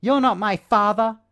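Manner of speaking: mocking a squeaky high-pitched Batman. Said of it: "it's squeaky and high and up here".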